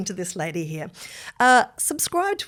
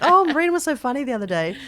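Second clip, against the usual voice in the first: imitating husband; 7 semitones higher, 6 dB louder, faster than usual. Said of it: "He's like".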